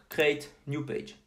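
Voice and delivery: English words in a real French accent. Real, not acted. Tutorial host reading a button label aloud, French-accented English. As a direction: read it slowly in a thick-ish French accent. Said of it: "excuse-moi pour mon accent anglais".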